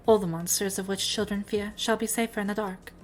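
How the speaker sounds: a hint of a grand, formal gym leader. Keeps voicing the gym leader.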